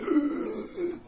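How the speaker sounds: exaggerated singer's intake of breath; demonstrated gasp. Shown as a demonstration. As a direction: suck air in audibly to show breathing. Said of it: "you gotta breathe the opposite way".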